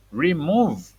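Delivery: put-on whispered word for a child. Shown as a demonstration. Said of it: "modelling word for a child".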